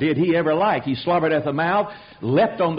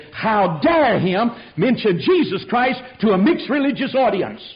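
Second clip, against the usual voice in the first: mock outrage, pitched up; retold indignant anger; 4 semitones higher than usual. Preacher mimics angry people who stormed out, retold indignation. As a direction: act out offended protest, moderately heated. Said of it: "some of them cursing in anger".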